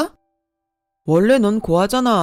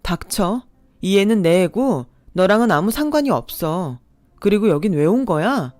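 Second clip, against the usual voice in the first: sharp, louder angry reply; angry retort; 4 dB louder than usual. Acted. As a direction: tell him to shut up, furious. Narrator snaps at her ex.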